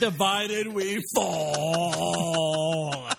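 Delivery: very slow, dragged-out solemn slogan; Cliff's slogan. Acted. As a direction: stretch each word like a pompous vow. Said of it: "Here's a line for you, Cliff".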